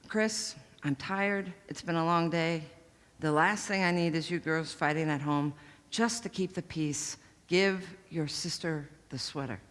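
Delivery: worn-out mom ending the fight; tired mom. Retold or imitated. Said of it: "that tone of voice in my mother's voice".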